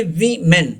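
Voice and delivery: "वीमेन" split as wee-men; syllable breakdown. Shown as a demonstration. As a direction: say "वीमेन" in two separate parts. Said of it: "ये आसानी के लिए". ("वीमेन" को "वी-मेन" तोड़कर बोलें)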